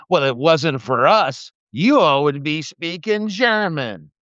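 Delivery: slow, mocking drawl of an overused line; mocking quote. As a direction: ham up the tired cliché slowly. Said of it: "I've heard the line so many times".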